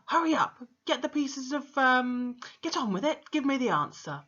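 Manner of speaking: impatient. Acted. Headmistress hurrying the boy.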